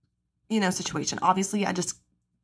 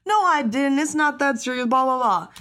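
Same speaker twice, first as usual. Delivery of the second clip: mocking line-cutter; 5 semitones higher, 3 dB louder than usual.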